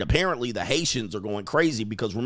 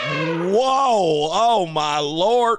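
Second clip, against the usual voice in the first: long drawn-out, higher-pitched amazement; astonished; 4 semitones higher, much slower than usual. Real, not acted. Host reacting to shocking video, astonished. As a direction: stretch every word out in stunned disbelief.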